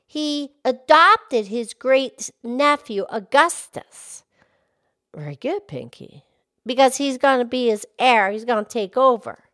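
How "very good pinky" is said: much lower, gentle cow voice; Mildred the cow. Acted. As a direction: drop the pitch low to play the old cow. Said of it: "Mildred the Moo Moo Cow".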